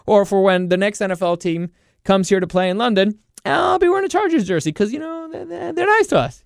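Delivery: high-pitched mock British fan voice; friendly London fan. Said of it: "It would have made people at least be like".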